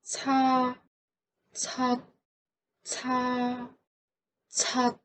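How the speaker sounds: Ta open with no T; Ta left open; Ta without stop; no final stop. Shown as a demonstration. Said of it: "without a stop".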